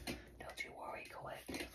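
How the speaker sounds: unvoiced soothing whisper. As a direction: hush it like a secret comfort. Whispered repeat of reassurance.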